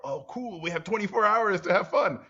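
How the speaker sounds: high, bright-eyed mock cheer; mock cheerful optimist. Optimist shrugging off the world's end, high and cheerful. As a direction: play the guy who loves bad news.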